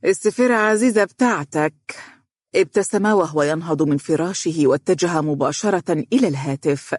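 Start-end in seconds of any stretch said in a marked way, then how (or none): 0.0-2.0 annoyed huff, pitched up; mother grumbling about his girlfriend's call; exasperated. A narrator's reading. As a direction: say it with a sigh of irritation. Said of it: "بتأفف".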